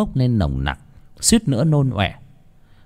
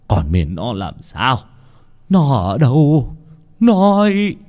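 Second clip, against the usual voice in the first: urgent demand; 2 semitones higher, 4 dB louder, slower than usual. A narrator's reading. Master grabs servant by the neck, demanding word of his daughter. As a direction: press harder with each phrase, ending loud.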